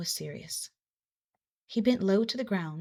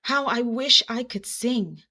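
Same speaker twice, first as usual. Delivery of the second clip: gasping wish; 4 semitones higher, 6 dB louder, slower than usual. A narrator's reading. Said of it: "he gasped".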